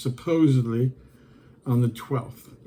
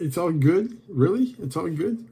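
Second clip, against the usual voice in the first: throwing his words back in disbelief; incredulous mockery; 3 semitones higher than usual. Real, not acted. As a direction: question it like you can't believe it. Mocking buyer's phrase in disbelief.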